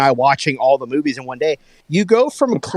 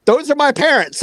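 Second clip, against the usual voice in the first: lightly voiced daughter; 11 semitones higher than usual. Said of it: "she goes".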